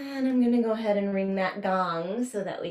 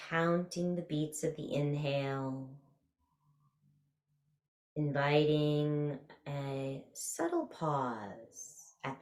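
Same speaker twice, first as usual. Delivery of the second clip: guided meditation. Real, not acted. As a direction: ease them through a body scan, stretching key words.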